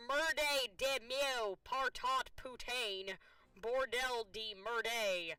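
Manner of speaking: slow, drawn-out French swearing, "Merde" stretched; mock French cursing. Player reading the angry French line, slow hammed-up French swearing. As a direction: curse in hammed-up French, slowly. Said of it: "struggle with me as I try to read French".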